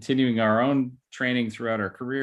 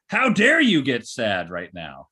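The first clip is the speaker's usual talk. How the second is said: slow, louder scolding "how dare you"; mock angry parent; 5 dB louder, slower than usual. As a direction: scold like an irritated parent, drawn out.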